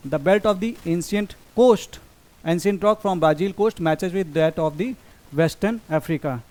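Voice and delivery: slow, careful reading of an exam statement; slow reading aloud. Shown as a demonstration. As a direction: read each word out slowly for the class. (धीमे-धीमे पढ़कर सुनाना)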